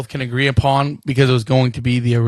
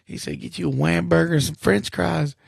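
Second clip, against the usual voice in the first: Joe Dirt quote voice; 4 semitones higher than usual. Retold or imitated. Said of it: "Isn't that how he says it?".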